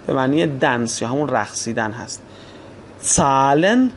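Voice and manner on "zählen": زالن opening on "ts", as "tsalen". Shown as a demonstration. Teacher giving an example, زالن as "tsalen". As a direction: say زالن with t run into s.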